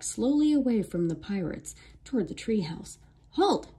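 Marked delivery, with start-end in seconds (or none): 3.3-3.7 sharp high pirate shout. A narrator's reading. Pirate captain shouts at the children to halt. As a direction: bark the order to stop the kids. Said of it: "Captain Bones shouted".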